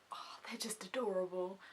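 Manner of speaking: soft, voiceless gush; hushed adoring sigh of words; whispered swoon. Real, not acted. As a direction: whisper it, overcome by cuteness. Overcome by how adorable they are.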